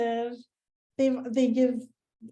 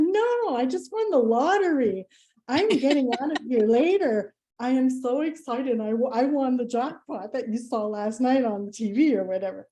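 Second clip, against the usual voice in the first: giddy lottery fib. Retold or imitated. Fibbing about winning the lottery.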